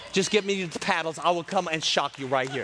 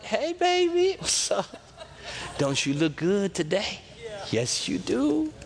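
smooth-talking snake; 2 semitones higher than usual. Acted. Snake flatters Eve in the garden, smooth-talking. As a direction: sweet-talk her, lightly acted. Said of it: "snaky snake, uh, comes to Eve".

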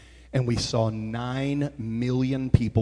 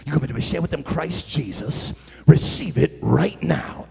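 quoting a prophecy; 4 semitones lower than usual. Retold or imitated. Bishop's prophecy voiced quietly.

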